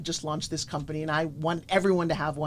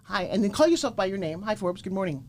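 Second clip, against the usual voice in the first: cheerful greeting. Shown as a demonstration. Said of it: "Look in the mirror and say".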